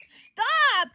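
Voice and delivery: high, loud cut-in; urgent interruption. Acted. Peter stopping Johnny near the truth, urgent high command. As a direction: cut them off sharply and high. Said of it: "getting too close to the truth".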